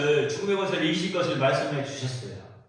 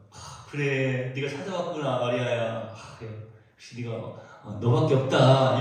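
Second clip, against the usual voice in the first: imagined tender Jesus; 5 semitones lower than usual. Retold or imitated. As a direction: gently comfort her, drawing out the words. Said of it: "이런 지금 표현이 아니잖아요".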